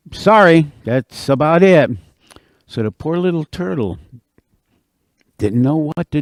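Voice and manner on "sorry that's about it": louder, blunt brush-off; dismissive beaver. Acted. Beaver brushes off the turtle's plea, dismissive. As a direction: shrug it off firmly.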